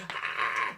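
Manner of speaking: short mock freak-out scream; wigging-out scream. Showing colleagues how the character would not react, mock scream. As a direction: cry out as if wigging out, hammed-up. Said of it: "he's not wigging out".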